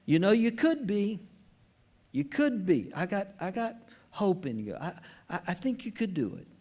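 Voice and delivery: lightly voiced doubtful teacher hedging his hopes; mock hesitant encouragement. Pastor voicing what Jesus did not say, mock unsure encouragement. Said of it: "He does not say".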